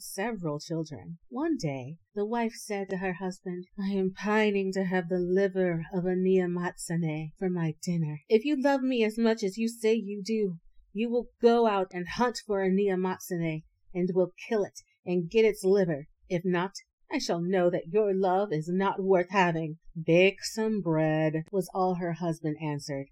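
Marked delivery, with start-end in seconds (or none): 3.8-19.8 insistent wife, louder and pushy; demanding wife. Acted. 19.9-21.4 curt husband. Acted.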